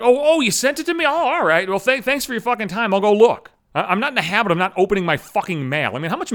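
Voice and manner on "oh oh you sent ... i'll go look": higher, louder sarcastic mock thanks; sarcastic oh-thanks, pitched up. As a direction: overdo the fake gratitude. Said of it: "that's just supposed to be like".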